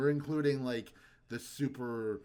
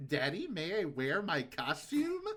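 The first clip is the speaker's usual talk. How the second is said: imitating child; 6 semitones higher than usual. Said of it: "Daryl's like".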